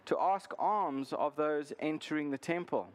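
measured Bible reading with deliberate pauses; formal read-aloud, phrase by phrase; scripture reading. Acted. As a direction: read the passage aloud to a congregation. Reads the scripture passage aloud.

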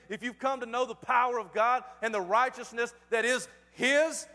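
driving, insistent sermon build; emphatic pulpit delivery; fervent preaching. Real, not acted. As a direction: press each phrase on the congregation. Preaches at full force.

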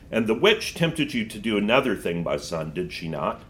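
Aslan voice. Acted. Aslan speaks gently.

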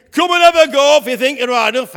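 loud taunting bellow; giant's shout. Acted. Goliath shouting his dare at young David, loud taunting roar. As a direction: roar the dare across the valley. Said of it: "And he shouted again".

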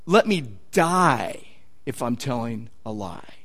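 low, slow, soft acted vow; sinking to a very quiet finish; hushed oath. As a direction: swear it slowly under the breath. Peter's self-curse acted out.

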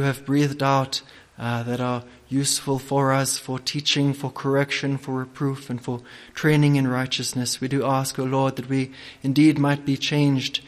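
prayer. Real, not acted. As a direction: pray humbly before the sermon. Opening prayer.

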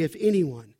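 understated, tender correction; gentle exhortation. Acted. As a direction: say it gently, as mild counsel. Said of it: "would just gently say".

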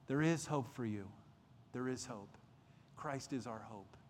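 softening, lowering reassurance; gentle reassurance. Real, not acted. Preacher offering hope to the scared, softly reassuring.

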